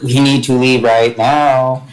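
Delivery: slow, deliberate hint to a companion; slow prompting, words drawn out; pointed nudge. Acted. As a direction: stretch it out meaningfully. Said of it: "Kim nudges Galliford".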